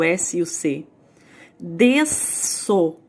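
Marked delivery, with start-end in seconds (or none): 1.6-3.0 Desso, the S and C of nascer merged into one S sound; sound demo. Shown as a demonstration. Teacher shows how nascer's SC sounds as one S. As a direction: say desso with no break between S and C. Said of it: "Eu não consigo falar desso separado".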